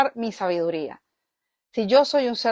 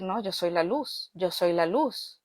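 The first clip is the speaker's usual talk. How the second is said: firm self-affirmation; 2 semitones lower, 6 dB quieter, slower than usual. Retold or imitated. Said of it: "empiezo a decir".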